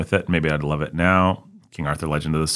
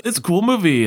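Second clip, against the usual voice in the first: Ben was like; 11 semitones higher than usual. Retold or imitated. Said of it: "Ben was like".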